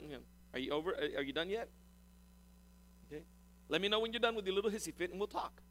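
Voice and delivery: unruffled parent waiting out a tantrum; softly wait for the child to finish; patient parent. Acted. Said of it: "God's tone is not an angry tone".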